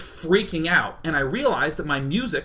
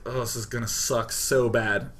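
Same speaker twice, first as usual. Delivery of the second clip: resigned dread; 5 semitones lower, 4 dB quieter than usual. Retold or imitated. Dreading the police stop.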